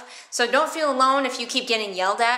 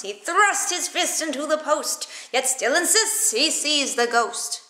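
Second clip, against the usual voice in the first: with arm motions; 4 semitones higher than usual. Shown as a demonstration. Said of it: "with the arm motions".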